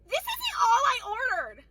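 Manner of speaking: hammed-up whine of an entitled diner; whiny mock customer. Mocking customer complaint.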